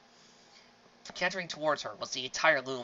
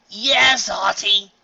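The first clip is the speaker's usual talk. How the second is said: eager chorus; 8 semitones higher, 16 dB louder, much slower than usual. Acted. Foals answering together.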